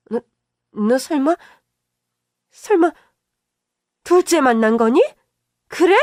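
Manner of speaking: an indignant mother defending her son; scolding mother-in-law. Acted. Mother-in-law scolding daughter-in-law for accusing her son, indignant.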